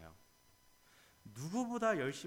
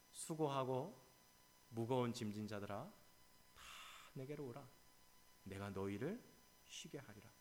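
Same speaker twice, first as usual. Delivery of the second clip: gentle invitation; 6 dB quieter than usual. Acted. God's gentle invitation quoted.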